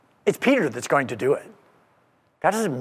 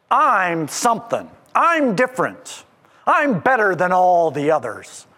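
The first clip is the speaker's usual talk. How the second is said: lightly voiced swaggering disciple; boastful Peter. Pastor voicing Peter boasting to Jesus, proud. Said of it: "Peter was so certain he would not be a coward".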